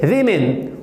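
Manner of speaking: "वीमेन" as WI-min; short i in both syllables of "वीमेन"; careful falling model "वीमेन", wimin; plural pronunciation. Shown as a demonstration. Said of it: "क्या बोलेंगे".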